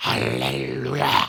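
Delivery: hoarse, rough, phlegm-gurgling, worn-out croak. Recalling a throat strained by nightly loud prayer: hoarse voice with phlegm. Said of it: "이렇게 목소리가, 가래 끓는 목소리가 나오게 됩니다".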